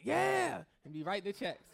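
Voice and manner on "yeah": high, loud eager agreement; a gullible viewer cheering on, pitched up; eager yeah. Retold or imitated. TBN viewer agreeing with the preacher, eager high yeah.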